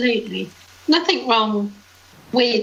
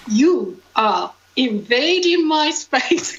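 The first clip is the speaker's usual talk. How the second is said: slow, deliberate warning with no accent attempted; stern warning; 2 semitones higher, much slower than usual. Scottish pub regular warning off crowding drinkers, slow stern voice. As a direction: spell out each word like a firm boundary. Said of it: "He would say".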